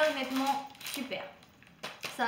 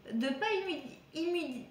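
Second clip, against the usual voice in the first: tripping over the word and cutting it off; real stuck-on-a-word false start; tongue-tied stumble; 4 semitones higher than usual. Real, not acted. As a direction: stumble twice on a word you can't finish. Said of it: "je vais pas y arriver".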